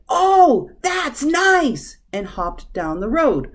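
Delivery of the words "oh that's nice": high, loud little frog exclamation; loud frog shout. A narrator's reading. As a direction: belt it out high as the big-mouthed frog. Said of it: "Very loudly, the frog said".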